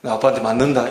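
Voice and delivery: low, understated scolding warning; imitated parental threat. Parent warning a stubborn child about dad, mild mock threat. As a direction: lightly voice a parent's menacing warning. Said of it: "윽박을 지르고 막 협박 비슷하게".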